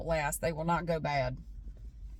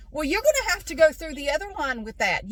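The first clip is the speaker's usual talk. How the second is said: mock yelling; 5 semitones higher, 4 dB louder than usual. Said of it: "Why is he yelling at me".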